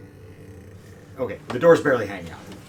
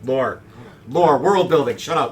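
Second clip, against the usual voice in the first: louder, higher teasing outburst; playful loud retort; 6 semitones higher, 10 dB louder than usual. Real, not acted. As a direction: snap it out in mock annoyance. GM mocking lore excuse.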